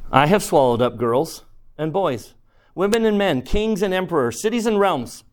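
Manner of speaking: matter-of-fact lion. Acted. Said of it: "not boasting, nor sorry, nor angry".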